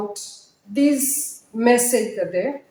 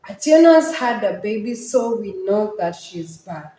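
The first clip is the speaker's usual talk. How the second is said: put-on "Atieno's had a baby, so we know" in one quick breath; no pause. Shown as a demonstration. Teacher repeats the run-on lines, quick with no pause. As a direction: run "baby" into "so we know", dropping away by "bad". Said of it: "I didn't pause".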